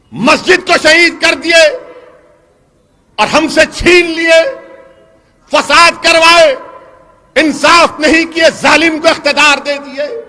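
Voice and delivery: fiery rally shout; rousing shout. Real, not acted. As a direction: hurl each wrong at the crowd. Fiery political speech grievance list.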